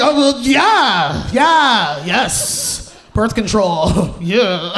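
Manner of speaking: caught-out fumbling; flustered stalling. Retold or imitated. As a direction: stall nervously, dragging the words. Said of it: "I'm like".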